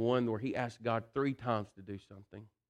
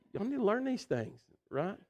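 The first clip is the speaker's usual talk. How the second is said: teasing aside; 9 semitones higher than usual. Acted. Joking aside to congregation.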